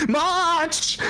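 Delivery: high, slow barking commander; pompous commander. Acted. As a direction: order the crowd out, pompously. Character orders crowd out.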